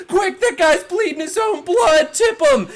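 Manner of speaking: high, loud urgent shout; panicked yelling. Acted. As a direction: yell frantically to the ambulance crew. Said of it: "the guy starts yelling".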